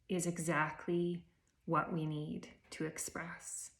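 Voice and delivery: calm breath-practice voice with long pauses; unhurried meditation leading, spaced by silences; guided meditation. Real, not acted. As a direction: guide them gently inward, phrase by phrase. Leads a meditation.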